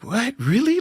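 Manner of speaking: high-pitched incredulous questions; surprised. Retold or imitated. Comic retelling his reaction to a stolen joke, surprised. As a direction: jump up high in mock disbelief.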